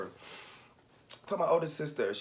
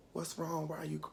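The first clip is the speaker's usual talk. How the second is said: higher, softened voice of concern; soft concerned grandmother; 6 semitones higher, 5 dB quieter than usual. Retold or imitated. Grandmother asking a crying grandchild, soft and concerned. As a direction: gently ask in a higher voice. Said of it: "well, she really wasn't talking".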